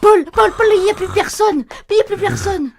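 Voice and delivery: urgent, loud, high-pitched wake-up cry; alarmed. Acted. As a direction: wake your partner in a panic. Wakes husband in alarm.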